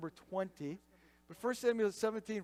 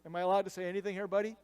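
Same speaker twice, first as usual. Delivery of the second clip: mock-weary younger brother; imitated exasperated sarcasm; eye-rolling; faster than usual. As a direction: talk back with a mild eye-roll. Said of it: "he's rolling his eyes and saying".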